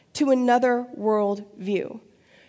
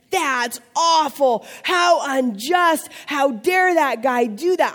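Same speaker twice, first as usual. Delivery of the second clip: indignant outrage; slower than usual. Acted. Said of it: "David's, like, mad".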